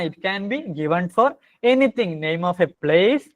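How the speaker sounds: words stretched out one by one; slow dictation. Shown as a demonstration. Teacher dictating what a noun is, very slow. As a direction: spell it out slowly for the notebook.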